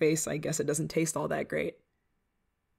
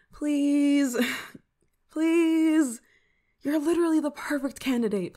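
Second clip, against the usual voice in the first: wheedling pleas, pitched up; begging; 7 semitones higher than usual. Acted. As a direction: beg like you really need a yes. Begging friend to test potion.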